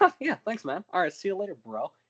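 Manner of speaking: mock laid-back casual voice. Retelling how Superman thanked a kid: casual Superman delivery. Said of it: "The thing with that delivery".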